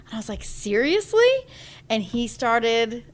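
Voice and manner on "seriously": high, louder disbelieving question; surprised. Retold or imitated. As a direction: pitch it up in excited disbelief. Reacting to husband's news.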